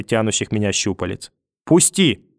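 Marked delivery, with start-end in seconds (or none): 1.6-2.3 much higher, louder scream; grandma screams to be let go, much higher and louder. A narrator's reading. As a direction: scream it as a threat from the dark. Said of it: "кричала где-то в темноте бабушка".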